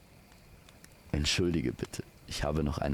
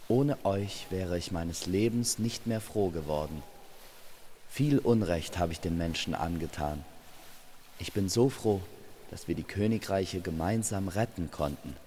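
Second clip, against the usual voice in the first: a lightly raised, glad voice of thanks; grateful character. Acted. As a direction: speak up brightly, relieved and thankful. Grateful character speaks after rescue.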